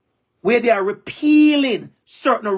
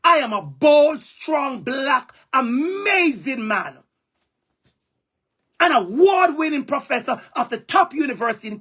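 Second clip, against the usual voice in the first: proud declaration through real tears; tearful pride; 3 semitones higher than usual. Real, not acted. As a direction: voice catching with tears, defiant. Defiant self-affirmation after abuse.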